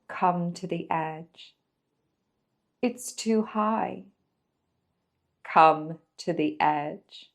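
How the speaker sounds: slow, spare recital with long pauses; poem recital. Acted. Presenter recites Come to the Edge to viewers, slow poem reading. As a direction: let each short line stand alone, unhurried.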